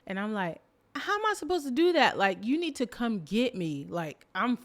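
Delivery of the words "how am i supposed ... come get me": high, loud, fast panic; freaking out. Retold or imitated. Lost in the dark, pleading with the tour guide, panicked. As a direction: blurt it in a panicked rush. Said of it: "I'm freaking out".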